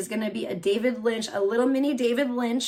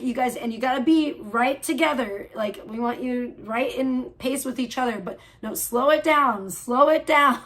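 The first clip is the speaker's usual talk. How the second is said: mild director voice. Retold or imitated. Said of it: "David Lynch directing that scene".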